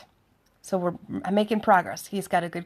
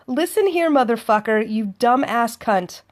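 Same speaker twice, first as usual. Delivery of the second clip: gangster. Retold or imitated. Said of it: "I start to go a little bit gangster".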